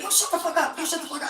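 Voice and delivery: loud, high yelled shut up; retold furious yell at the crowd; angry shout. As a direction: bark it to stop the fight. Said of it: "Okay, I said".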